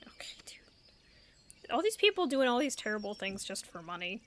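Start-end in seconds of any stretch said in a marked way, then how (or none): 0.1-1.7 breathy, drawn-out whispered okay dude; whispered aside. Real, not acted. Streamer reacting to the traitor's confession, slow whispered aside. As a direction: whisper it slowly, unimpressed.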